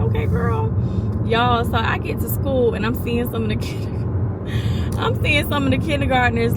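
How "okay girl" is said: put-on high, sassy approving "okay, girl"; playful high-pitched praise; impressed. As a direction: cheer her outfit like a hype friend. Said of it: "I was like".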